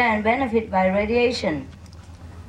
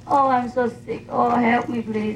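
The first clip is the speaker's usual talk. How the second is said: put-on babying myself; 2 semitones higher than usual. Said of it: "I talk to myself".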